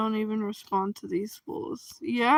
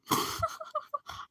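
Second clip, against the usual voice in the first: mock crying whimper; 8 dB quieter than usual. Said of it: "you're about to see me go like".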